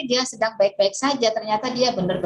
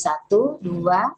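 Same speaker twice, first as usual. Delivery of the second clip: slow counting; much slower than usual. Shown as a demonstration. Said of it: "berapa nih?".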